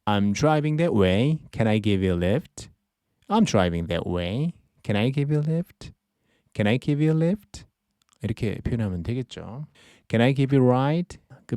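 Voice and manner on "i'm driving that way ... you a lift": slow model phrase. Shown as a demonstration. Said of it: "이걸 영어로 하면".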